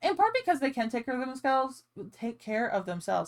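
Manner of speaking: way-too-fast, rushed, rattled-off chatter. Chatting about cats, the speaker admits talking way too fast. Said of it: "I'm talking way too fast".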